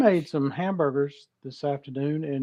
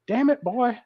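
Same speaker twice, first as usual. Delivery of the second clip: imitating coach; 9 semitones higher than usual. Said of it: "he whacked me upside the helmet and he said".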